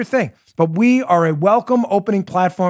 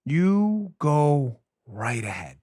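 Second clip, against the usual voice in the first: mock go-ahead; 5 semitones lower, 7 dB quieter, much slower than usual. Repeated sarcastic permission.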